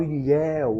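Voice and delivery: "ilhéu" with a wide open é in the final diphthong; open vowel demo. Shown as a demonstration. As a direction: say "ilhéu" clearly, lips opening on the éu. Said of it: "eles se abrem". ("ilhéu" com o éu bem aberto, abrindo os lábios)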